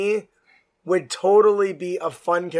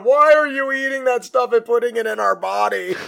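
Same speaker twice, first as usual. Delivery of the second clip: hammed-up scolding yell, higher; mock yelling; 5 semitones higher, 3 dB louder than usual. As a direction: scold the other head, loudly. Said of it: "yelling at him".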